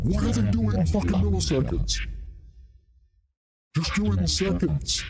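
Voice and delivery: high-pitched exasperated whine of a complaint; irritated rant, pitched very high; mock irritation. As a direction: act out being fed up, voice shooting way up. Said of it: "I used to get real irritated".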